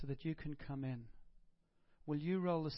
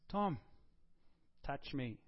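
gentle invitation; 2 semitones lower, slower than usual. Pretend. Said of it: "Jesus then comes into that room again and says".

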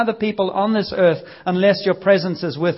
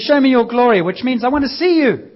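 bold plea; 5 semitones higher, 4 dB louder than usual. Acted. Moses pleading boldly to God.

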